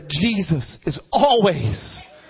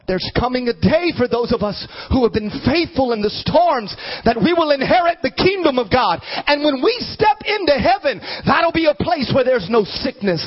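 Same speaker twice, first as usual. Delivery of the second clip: rolling, rising sermon cadence; fervent preaching; 5 semitones higher than usual. Real, not acted. Preacher promising a painless heaven, fervent preaching. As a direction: build it like a hopeful preacher.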